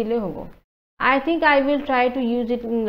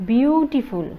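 বিউটিফুল drawn out, its first syllable held; stretched syllables; 3 semitones higher, 4 dB louder, much slower than usual. Shown as a demonstration. Teacher readying the syllable count, বিউটিফুল said deliberately. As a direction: lengthen the opening of বিউটিফুল. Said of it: "ইয়াতে তিনিটা syllable হ'ব".

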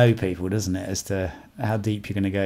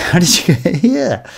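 "here" pushed out loud and high; loud, high question landing on "here"; stress on here; 9 semitones higher, 9 dB louder than usual. Shown as a demonstration. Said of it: "there's different ways".

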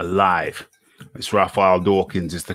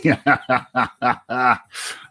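long run of ha-ha laughter; hearty laugh; 3 semitones higher than usual. Real, not acted. Host reading incoming comments, long laugh. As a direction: laugh out at what you just read.

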